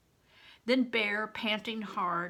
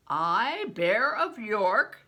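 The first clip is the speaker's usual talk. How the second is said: slow, loud proclamation; grand booming announcement; roar; 2 semitones higher, 7 dB louder, much slower than usual. A narrator's reading. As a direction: roar it for all to hear. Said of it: "he roared loud enough for all the world to hear".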